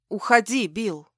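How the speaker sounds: usual speaking voice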